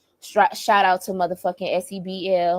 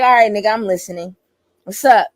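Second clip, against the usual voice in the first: irritated; 6 dB louder, faster than usual. Retold or imitated. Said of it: "I'm mad now".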